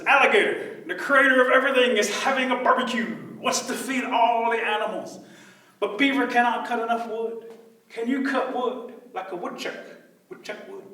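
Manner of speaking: high, loud trickster rabbit; rabbit calling out. Acted. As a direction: pitch the invitation eagerly across a creek.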